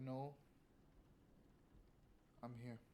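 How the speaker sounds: hushed, soft whisper, close in. Voicing a character speaking into another character's ear: whispering. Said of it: "Aubrey whispers in your ear".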